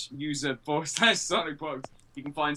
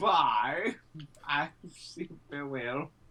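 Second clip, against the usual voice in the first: very slow, drawn-out, put-on European accent. Saying goodbye again after being told to do it properly: put-on European accent. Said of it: "I had a better impression than you".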